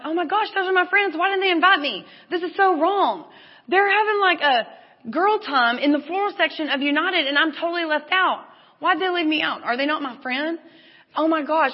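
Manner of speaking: high-pitched, hurt outburst at being left out; acted-out indignant dismay; dismayed inner monologue. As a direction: play up the wounded panic, pitched high. Acting out feeling left out.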